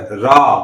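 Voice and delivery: रा with the आ held long. Shown as a demonstration. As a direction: stretch the vowel in रा. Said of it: "इस आ का उच्चारण अधिक समय तक हुआ".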